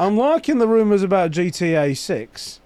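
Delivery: put-on committed but poor Australian accent; attempted Australian accent. Reading a listener's message, bad Australian accent. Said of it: "Fuck it, we're going".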